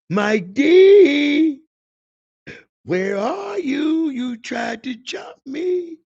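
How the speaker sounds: high, loud furious shouting for Mike D; angry gunman calling out his name; shooter yelling. Retold or imitated. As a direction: bellow it out hunting for him.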